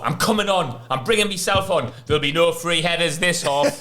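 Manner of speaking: high, determined; lightly voiced player-manager losing his head; fired-up manager. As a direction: announce it like an angry boss. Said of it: "he was like".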